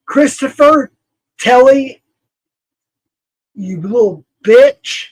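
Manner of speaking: shouting the names in real fury; furious shout at someone who crossed him; angry yelling. Real, not acted. Furious rant at named enemies.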